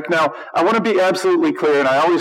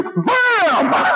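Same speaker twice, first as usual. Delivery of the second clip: high burst; 12 semitones higher than usual. Real, not acted. Punchline after mock quote.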